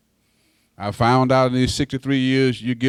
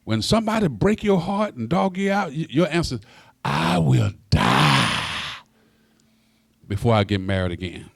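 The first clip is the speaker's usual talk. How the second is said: high, pleading cry to God; mock anguished prayer; 4 semitones higher than usual. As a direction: complain to the Lord, slowing on the vow. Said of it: "I said".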